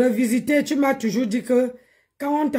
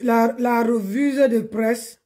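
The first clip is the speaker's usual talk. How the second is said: slow, careful; slower than usual. Shown as a demonstration. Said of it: "en bon français".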